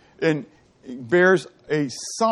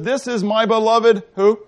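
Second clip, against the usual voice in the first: voice of the Father; 4 semitones higher, slower than usual. Retold or imitated. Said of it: "And the Father says".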